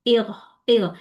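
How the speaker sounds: इग with the voice wobbling on the g, a bounced echo; shaky qalqala demo. Shown as a demonstration. Teacher shows the shaky voice to avoid. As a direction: let इग shake as the wrong way. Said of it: "आवाज हिला दी मैंने".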